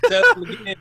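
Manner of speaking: gleeful request. Retold or imitated. Proud dad asks for repeat.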